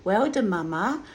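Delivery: voicing Charlie. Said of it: "She says".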